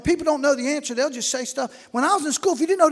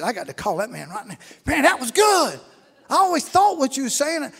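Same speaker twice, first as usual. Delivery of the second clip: excited; 2 semitones higher, 3 dB louder than usual. Retold or imitated. Excited call to pastor.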